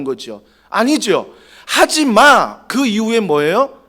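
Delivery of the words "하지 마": slow, drawn-out stern "하지 마"; stern parent. Acted. Strict parent cutting a child off, stern and slow. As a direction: lay down the law like a strict parent. Preacher voices a scolding parent.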